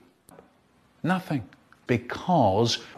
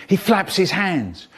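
ordinary delivery

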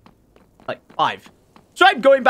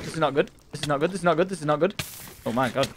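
worried muttering; 6 semitones lower, 8 dB quieter, much faster than usual. Real, not acted. Panicked under attack, muttering.

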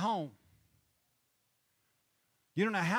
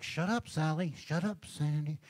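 telling a friend off. Retold or imitated. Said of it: "And we're like".

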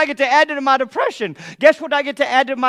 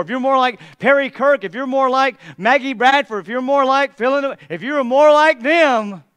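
louder, needling voice of shame; accusing taunt; 5 dB louder than usual. Acted. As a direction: press every "if you were more" like an accuser.

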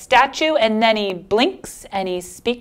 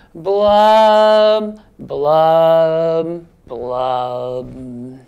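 put-on kids join in blowing fish bubbles; fish blub blubs; 4 semitones lower, 4 dB louder, much slower than usual. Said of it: "Here we go".

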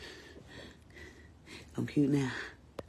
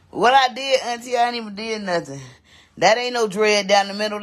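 high protest; 6 semitones higher, 4 dB louder than usual. Real, not acted. Protesting auntie's cussing.

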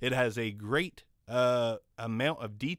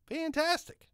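high squeak; 14 semitones higher than usual. Shown as a demonstration. Echoing his own word, mic test.

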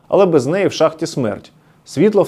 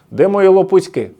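grandfather's call, a bit higher and louder; mild mock shout; 5 semitones higher, 5 dB louder than usual. Grandpa searching for slippers, mock shout. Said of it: "кричали діди".

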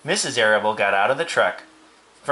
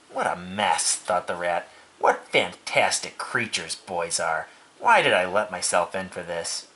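lower, weary inner grumble; grumbling rat; 4 semitones lower than usual. Acted. Rat under the straw, low disgusted grumble.

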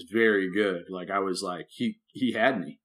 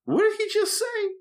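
baffled. Retold or imitated. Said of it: "And you're just like".

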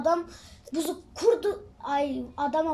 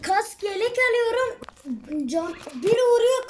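high-pitched, worked-up complaint; agitated gamer protest; 5 semitones higher than usual. Real, not acted. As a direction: voice pushed up in frustration. Protesting mid-game while being hit.

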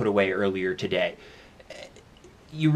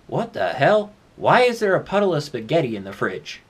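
baffled outburst; 3 semitones higher than usual. Acted. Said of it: "you hear him go".

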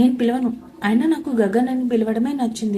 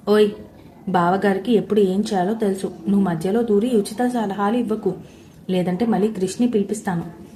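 threatening; 2 semitones lower than usual. Acted. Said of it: "అన్నాడు నన్ను బెదిరిస్తూ".

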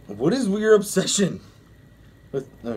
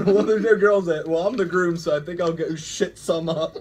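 laughing hard through the reading; words squeezed out between laughs; reading while laughing. Real, not acted. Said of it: "I'm gonna do awful with these stories".

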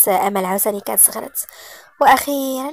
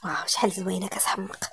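whispered to himself, much softer; inner thought; 3 semitones lower, 9 dB quieter than usual. A narrator's reading. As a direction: murmur it as a private thought. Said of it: "وفي نفسه". (همس داخلي خافت)

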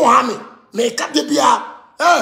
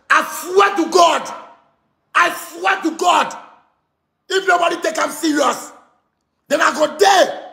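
heated shouting; 5 semitones higher, slower than usual. Real, not acted. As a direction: shout it out in anger. Heated rant about Ghana.

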